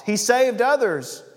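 high, loud sneer; scoffing. A narrator's reading. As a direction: leaders scoffing at Jesus on the cross, sneering. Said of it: "the leaders scoffed".

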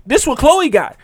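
excited little daughters. Retold or imitated. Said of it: "they like".

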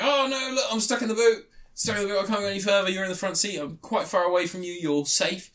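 high mock dog voice, pleading; voicing the dog. Retelling a film, voicing the stuck dog high. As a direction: squeak it out as the trapped dog.

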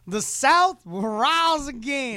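high, slow Southern drawl; mock Southern accent. Mimicking a co-host's line, mock Southern accent. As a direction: drag it out in an exaggerated Southern accent. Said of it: "Brother, I heard you ten seconds ago".

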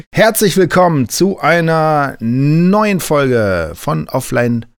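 slow, hammy stage-actor welcome; lightly hammed-up stage announcer; theatrical. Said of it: "Bleib mal so theatralisch".

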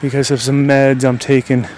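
breathless, winded talking; out of breath. Real, not acted. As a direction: catch your breath between words. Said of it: "I'm out of breath right now".

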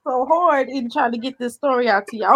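holding back laughter, slowed; talking through suppressed giggles; stifled giggles. Real, not acted. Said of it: "I'm trying not to laugh so hard".

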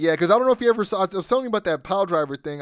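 hurrying to tell a friend about the pile driver, excited and fast. Real, not acted. Excited retelling, fast loud.

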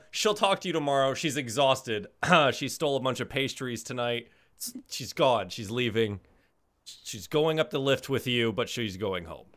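put-on loud, high southern accent. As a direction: play it as a southern gal. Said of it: "speak in a southern accent".

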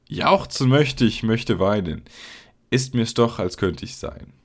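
loud, declaimed poem reading; Gedichtvortrag. Acted. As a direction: recite the verse out loud, line by line. Liest das Gedicht laut vor. (lautes, deklamiertes Gedichtvorlesen)

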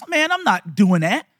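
imitated Boston accent. Friend turns down the job, in a mock Boston accent. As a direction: lightly put on a Boston accent. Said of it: "that Boston accent".

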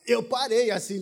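gasp, then stunned words; awed gasp. Retold or imitated. Retelling the moment he saw her, gasping in awe. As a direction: catch your breath in wonder.

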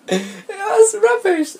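high, slow, incredulous scoff. Real, not acted. Mocking the book's commander, a slow scoff. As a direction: drag it out in disbelief.

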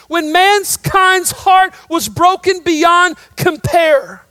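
loud, high, rising preacher's cry; preaching at full force. Real, not acted. Preacher rousing his church to full voice. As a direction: build the room to a peak of praise.

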